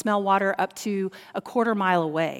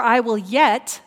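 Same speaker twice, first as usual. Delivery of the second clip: YET held long and pressed; stress on YET; 5 dB louder, slower than usual. Shown as a demonstration. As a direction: lean slowly on the word "yet". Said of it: "there's that word".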